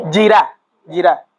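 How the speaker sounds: "Yirá" stressed on the final Á; acento final en A. Shown as a demonstration. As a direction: say "Yirá" twice, each landing on the last syllable. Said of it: "Tilde en la". ("Yirá" con acento agudo en la Á final)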